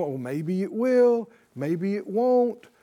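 waver like someone unsure, lightly mocked; mildly hammed-up hopeful uncertainty. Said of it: "you're wavering".

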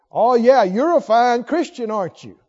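mock praise with a loud opening; sarcastic. Putting down a fellow Christian, sarcastic. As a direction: pretend to compliment while putting down. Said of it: "sarcastic voice".

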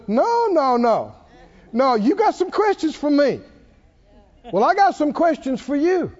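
the Lord. Retold or imitated. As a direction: turn the questioning back, firmly. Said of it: "And then the Lord said".

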